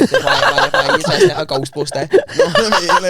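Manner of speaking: very high, laughing through the words; squealing laugh. Real, not acted. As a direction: crack up mid-sentence, voice shooting way up. Mocking her look, laughing.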